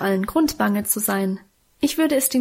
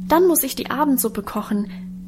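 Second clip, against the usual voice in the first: lightly higher, plaintive voice; complaining young woman; 3 semitones higher than usual. Acted. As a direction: sigh out the endless chores. Minchen klagt der Freundin. (Minchen klagt ihrer Freundin Adele, leicht höher und jammernd)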